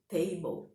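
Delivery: "table" said as "TEI-bou"; English pronunciation. Shown as a demonstration. Teacher models the word for students' notes, clearly pronounced "table". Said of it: "como você acredita que tá sendo pronunciado".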